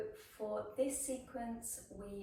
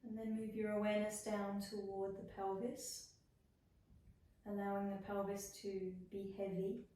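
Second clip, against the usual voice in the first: unhurried body-scan voice with long pauses; guided meditation. Acted. Yoga teacher guiding students through a body scan, guided meditation. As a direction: lead them gently into rest, phrase by phrase.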